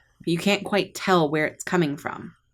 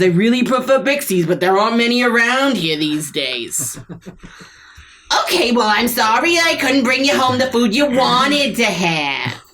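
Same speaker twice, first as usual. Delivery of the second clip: rising irritation in a hissing spat; snake couple quarrel; 4 semitones higher than usual. Acted. Snake wife nags husband, mildly sharp bickering. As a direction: bicker like an old married snake.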